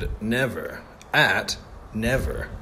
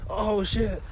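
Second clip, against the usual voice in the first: higher, disgusted groans; grossed out; 9 semitones higher, 5 dB quieter than usual. Real, not acted. Vlogger grossed out by squishy lake ground, higher. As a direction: recoil at something nasty underfoot.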